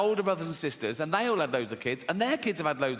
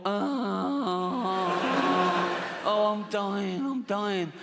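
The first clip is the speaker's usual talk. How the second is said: higher-pitched, drawn-out mock wail; melodramatic dying snail; 4 semitones higher, much slower than usual. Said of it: "it starts giving it all".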